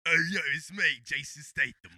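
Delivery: lightly done Cockney voice; Jason Statham. Pretend. Introducing himself on request, mock Cockney. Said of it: "give me a Cockney voice".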